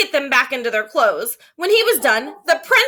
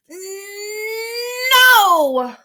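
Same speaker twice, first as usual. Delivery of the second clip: higher, drawn-out defiant no; stubborn child's no; 8 semitones higher, 4 dB louder than usual. Acted. Boy refusing his teacher, a high stubborn no. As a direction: dig in like a stubborn kid.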